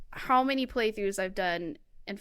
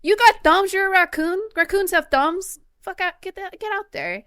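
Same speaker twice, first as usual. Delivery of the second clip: louder, higher, exasperated yelling; mock angry yell; 8 semitones higher, 6 dB louder than usual. Player yelling at Tom Nook, mock furious. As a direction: chew out the raccoon like a lazy boss.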